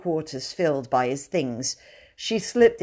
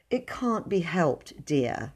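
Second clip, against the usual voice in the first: mild; 4 dB quieter, slower than usual. Acted. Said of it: "said Missus Brown mildly".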